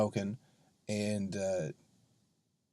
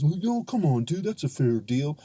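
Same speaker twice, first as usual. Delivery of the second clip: mock protesting dude, pitched up at first; guys butting in; 2 semitones higher than usual. Guys tell the comic to come on, mock protest. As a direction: imitate a guy jumping to her defence. Mimicking guys who defended her.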